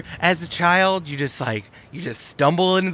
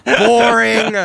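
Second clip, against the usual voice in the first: high laughing scoff; laughing dismissal; 7 semitones higher, 8 dB louder than usual. Acted. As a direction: laugh it off with contempt. Laughs off trauma answer.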